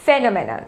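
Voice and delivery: phenomenon as one word ending in n; final n sounded. Shown as a demonstration. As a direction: close phenomenon on a low, falling nun. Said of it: "last में एन आ रहा है".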